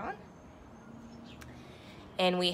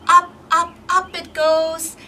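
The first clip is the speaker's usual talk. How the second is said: rising excitement; 6 semitones higher, 5 dB louder than usual. Acted. Seed flying up, narrator rising.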